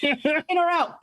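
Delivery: breathless after running upstairs; panting from the stairs; out of breath. Real, not acted. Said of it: "I'm out of breath from chasing him".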